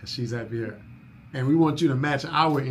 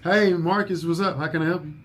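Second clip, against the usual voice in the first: too-casual phone answer; 3 semitones higher than usual. Shown as a demonstration. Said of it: "you can't just answer the phone like".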